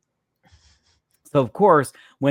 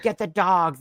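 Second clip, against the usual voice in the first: retold order; 7 semitones higher than usual. Retold officers calling for dogs.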